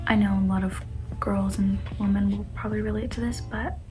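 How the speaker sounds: soft, hushed trigger warning; embarrassed reading aloud. Real, not acted. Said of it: "this is gonna be a hard read for me".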